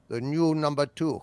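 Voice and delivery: cool, even British interrogator; British TV-villain reply; British accent. Acted. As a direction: answer calmly in a British accent. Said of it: "like in the opening of The Prisoner".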